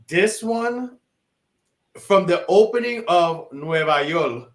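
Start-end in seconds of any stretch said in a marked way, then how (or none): 3.5-4.5 "Nueva York" said as "Nueva Yol"; song-title pronunciation. Real, not acted. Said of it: "you gotta say it like that".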